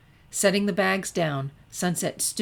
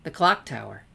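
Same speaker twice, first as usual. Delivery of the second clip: smirking; 3 semitones lower, 5 dB louder than usual. Acted. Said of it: "The redhead smirked".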